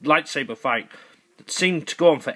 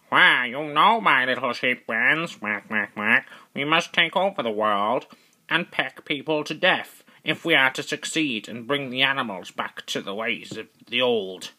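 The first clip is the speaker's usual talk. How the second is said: lightly voiced scheming duck with quacks; a hint of a plotting cartoon duck. Duck rallying his sheep friends, lightly voiced duck. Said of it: "the duck was planning with his friendly sheep friends".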